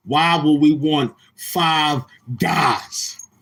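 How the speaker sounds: mock disbelief. Mocking the five guys order.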